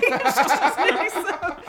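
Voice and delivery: slow, laughing loudly; words lost in laughter. Real, not acted. Laughing fit.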